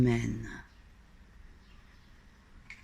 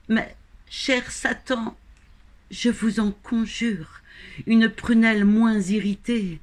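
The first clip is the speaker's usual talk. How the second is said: high-pitched pleading; 7 semitones higher than usual. Acted. Damned narrator begging dear Satan for mercy, high-pitched pleading. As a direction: plead high up, growing firmer by the end.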